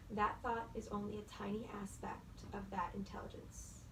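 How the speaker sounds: reading aloud. Acted. Reads Eckhart Tolle passage.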